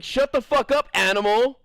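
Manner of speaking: mock angry outburst. Real, not acted. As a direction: bark it in half-joking anger. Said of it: "angry outburst".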